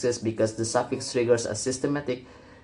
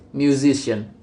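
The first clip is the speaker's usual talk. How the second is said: "musician" with the stress on SI; stress before suffix. Shown as a demonstration. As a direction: stress the middle syllable of "musician": mu-SI-cian. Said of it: "stress moves to the syllable immediately before the suffix".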